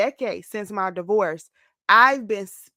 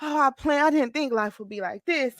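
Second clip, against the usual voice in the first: woe is me; 4 semitones higher than usual. Retold or imitated. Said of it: "it was".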